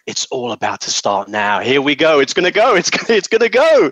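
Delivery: building from hushed to high, eager cheer; naive excitement. Retold or imitated. Young man in oil industry imagining change starting, rising eager excitement. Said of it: "in my kind of naivety in my twenties".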